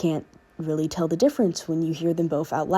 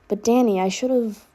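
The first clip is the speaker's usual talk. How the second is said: put-on filtered clone girl voice; 4 semitones higher than usual. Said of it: "I will be putting on a filter".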